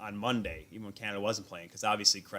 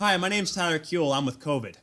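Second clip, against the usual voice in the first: retold flustered blurt; 6 semitones higher, 6 dB louder than usual. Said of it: "What came out of my mouth was".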